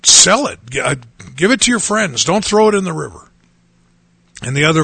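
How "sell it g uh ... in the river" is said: higher, pushier tempter's voice, rushing the last line; a hint of the devil whispering a bad idea; tempting voice. Pastor voicing the devil's urging to sell the drugs, higher and pushy. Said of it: "then another voice said".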